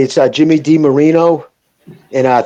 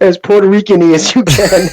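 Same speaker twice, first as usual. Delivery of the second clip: laughing imitation; 3 semitones higher, 3 dB louder than usual. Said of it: "heard you say that's the way you said it".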